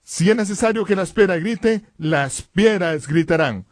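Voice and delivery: slow, emphatic refusal; Jesús. Retold or imitated. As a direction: declare it firmly, stretching the key words. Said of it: "Y Jesús dijo". (negativa solemne y pausada)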